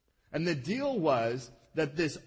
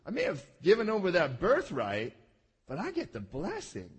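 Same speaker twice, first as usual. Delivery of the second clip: conniving Esau. Retold or imitated. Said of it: "Esau is playing into it and going".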